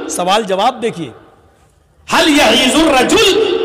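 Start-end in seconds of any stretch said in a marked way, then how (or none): 2.1-3.5 high, acted disbelief; retold indignant question, pitched up; incredulous retort. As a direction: throw the question back in astonishment. Retold incredulous reply repeated.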